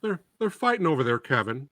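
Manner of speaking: high, whiny put-on voice of a pampered Brit; mocking pampered British onlookers, high and whiny; fussy Brit complaining. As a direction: whine about the noise and the tea. Mocks fussy British side complaining.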